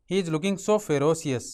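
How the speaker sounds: very slow sentence with the stress on so; slow whole sentence. Shown as a demonstration. Teacher reading the built sentence to students, very slow. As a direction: read the full sentence very slowly in one go. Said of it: "तो कैसे बनाएंगे?".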